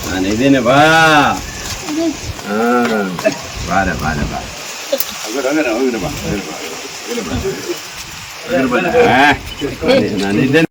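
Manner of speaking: low, soft coaxing; gently calm a weeping woman; soothing. Real, not acted. MLA coaxing a crying old woman to come to him, low and soft.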